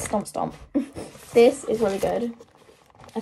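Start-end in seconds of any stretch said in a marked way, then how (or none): 0.0-0.5 slow heavy stomp, lightly voiced beast; deep mammoth voice. Girl reading her mammoth drawing's caption, deep stomping voice. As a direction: drop way lower for a stomping mammoth. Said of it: "and he says".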